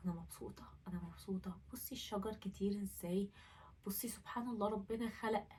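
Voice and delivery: soft unvoiced whisper to herself. Whispering happy words to herself at the night window. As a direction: breathe the words out in a hush. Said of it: "أفضل أقول".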